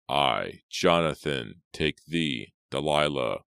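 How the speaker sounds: halting phrase by phrase, each ending in a fall; wedding vow. A narrator's reading. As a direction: repeat solemnly after a minister, pausing between phrases. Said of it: "Jonathan repeated the minister's words".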